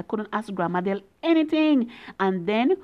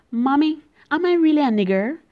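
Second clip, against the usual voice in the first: fast, higher, louder plea; upset blurted question; 5 semitones higher, 4 dB louder, faster than usual. Real, not acted. Girl blurts out the hurtful word to her mother, upset and fast. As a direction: blurt it out, hurt and alarmed. Child asks mother after insult.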